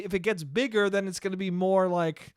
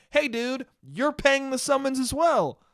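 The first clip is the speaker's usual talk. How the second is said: heated scolding; 7 semitones higher than usual. Retold or imitated. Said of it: "I'm getting fucking heated".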